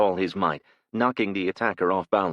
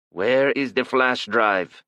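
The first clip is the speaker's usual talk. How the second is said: put-on slow, louder demand in a thick Asian accent; 5 semitones higher, 5 dB louder, slower than usual. A narrator's reading. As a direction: lean on each word, Asian-accented gunman. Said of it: "he demanded".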